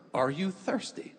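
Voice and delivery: restrained guard asking "thirsty"; scripted guard question. Retold or imitated. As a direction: quote a guard's only permitted line, lifting at the end. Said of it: "They're allowed to say".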